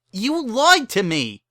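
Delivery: very high, loud, slow accusation; accusing shout. Acted. Bon Bon accusing Lyra of lying, loud shout. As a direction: hurl it at her.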